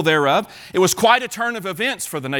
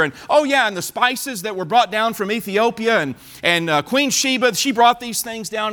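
higher, eager show-and-tell voice of a proud king; boastful excited king; 4 semitones higher than usual. Acted. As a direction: show off your treasures like a giddy host. Hezekiah shows off his treasures.

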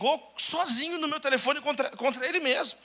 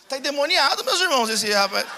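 louder, calling it out to the church; preaching exclamation; 2 semitones higher, 5 dB louder than usual. Real, not acted. Preacher to congregation, loud mock outrage. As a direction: declare it like a preacher.

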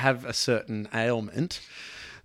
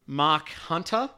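slow careful name; much slower than usual. Shown as a demonstration. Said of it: "say that with an American accent".

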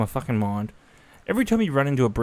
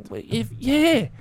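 mock retort; 10 semitones higher, much slower than usual. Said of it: "It's like".

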